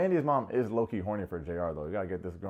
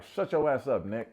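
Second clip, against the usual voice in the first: louder, higher retold snap at him; mock telling-off; 3 semitones higher, 4 dB louder than usual. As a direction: imitate a gangster put-down. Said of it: "She literally banged on this dude".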